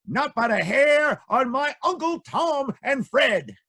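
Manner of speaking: high, slow little pig squeak. Acted. Pig answering the wolf from inside.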